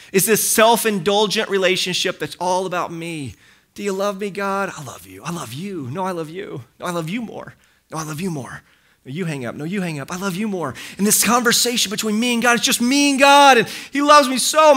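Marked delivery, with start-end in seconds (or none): 3.7-10.8 soft, low sweetheart murmur, playfully put on; hammed-up cooing, kept soft and low; mock lovey-dovey. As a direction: parody two doting lovers, hushed. Mock lovers' exchange with God.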